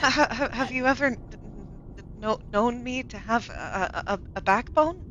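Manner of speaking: laughing stammer. Real, not acted.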